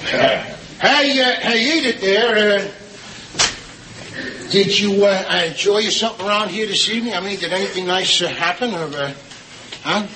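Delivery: halting small talk; hesitant, awkward. Acted. Husband sidles up to wife about her evening, hesitant. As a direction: fumble toward it with ums and pauses.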